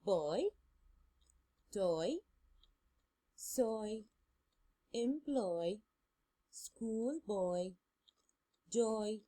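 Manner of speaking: put-on "Boy" "toy" "soy" "employ" "destroy" each said once with a clear "oi"; a last careful read-through of the list for students; model reading. Shown as a demonstration. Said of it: "I will read these words again for the last time".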